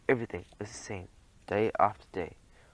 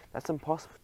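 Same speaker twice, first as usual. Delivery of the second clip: "That's impossible" squeaked higher in protest; 5 semitones higher, faster than usual. Acted. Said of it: "Passepartout squeaked".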